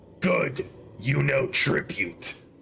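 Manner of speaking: very low, rough, rasping dragon rumble. In a tabletop game, the Black Dragon looks up and answers, in a dragon character voice. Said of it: "The Black Dragon looks up and says".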